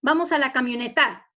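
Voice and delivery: "camioneta" with the last syllable TA punched; wrong stress on TA. Shown as a demonstration. Teacher trying it in a sentence, stress on TA in "camioneta". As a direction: throw the weight onto final TA in "camioneta". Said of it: "la sílaba tónica está en ta".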